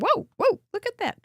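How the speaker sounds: high, loud delighted gasp at a card; excited whoa. Real, not acted. Host marvelling at a viewer's card, excited. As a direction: gush over what she sees.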